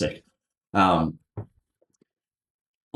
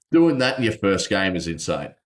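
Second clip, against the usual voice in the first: hiccups. Real, not acted. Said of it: "Excuse me, hiccuping".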